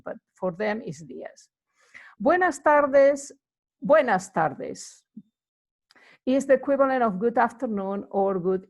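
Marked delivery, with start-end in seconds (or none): 2.2-5.0 Buenas tardes said slowly, bwenas tarðes; slow Spanish demo. Shown as a demonstration. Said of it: "teaching demo".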